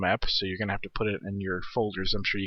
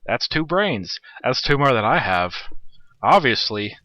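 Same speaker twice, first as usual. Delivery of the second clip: Orange impression; 2 semitones higher, 4 dB louder, slower than usual. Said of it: "that's my orange impression".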